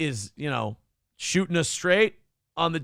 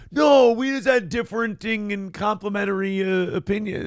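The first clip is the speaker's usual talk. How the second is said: mock Vivek denial; 6 semitones higher than usual. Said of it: "you go".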